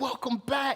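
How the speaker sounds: put-on very high, maximum-joy, excited, overjoyed voice. Retelling the parent greeting the returning kid: acting out excited joy. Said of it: "excited, maximum joy".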